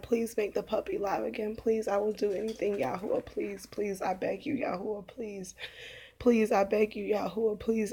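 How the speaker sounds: retold begging. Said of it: "literally begging Yahuwah".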